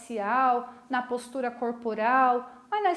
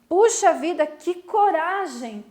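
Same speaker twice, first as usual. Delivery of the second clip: puxa vida burst out much louder and higher, que coragem slow; admiring amazement; 4 semitones higher, 8 dB louder than usual. Shown as a demonstration. Teacher showing the class an amazed puxa vida, loud and high. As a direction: gasp it out in awe. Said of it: "Admirada ... Espantada com a coragem".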